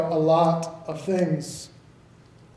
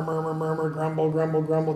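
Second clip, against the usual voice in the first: grumbling murmur; 5 dB quieter than usual. Shown as a demonstration. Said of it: "how it sounds when you pronounce it".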